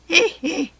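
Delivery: high, loud villain's tittering hee hee; high gleeful giggle. A narrator's reading. Jack Frost giggles at the fairies' chaos, high and loud. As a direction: start the laugh high and bright. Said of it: "beside himself with laughter".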